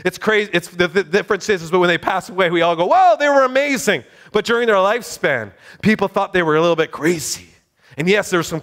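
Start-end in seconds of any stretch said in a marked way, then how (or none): 2.8-4.0 higher-pitched mock awe; imitated admiration. Preacher voicing how we praise changemakers after death, imitated admiration. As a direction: gush like an impressed crowd.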